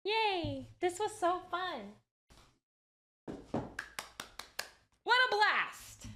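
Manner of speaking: high, loud happy cheering; excited cheer. Real, not acted. Crafter celebrating a fun session, cheering.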